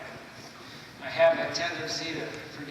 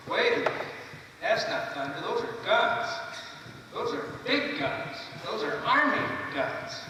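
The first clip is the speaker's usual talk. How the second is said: startled; 6 semitones higher than usual. Acted. Acting startled at the guns.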